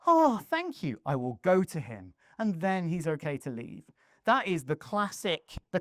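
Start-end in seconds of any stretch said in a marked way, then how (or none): 0.1-2.2 mock gratitude from a stock game villager; relieved NPC father. Father told his son is at the pub, hammed-up relief. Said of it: "then the father goes".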